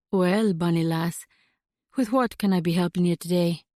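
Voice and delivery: a friendly Scottish burr, easygoing; Scottish accent. Acted. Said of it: "His accent was unmistakable and charming".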